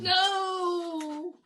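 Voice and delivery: mock anguish. Girl is struck down.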